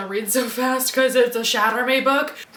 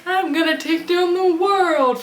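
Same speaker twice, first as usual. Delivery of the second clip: mock bold declaration; 6 semitones higher than usual. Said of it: "new Juliet being like".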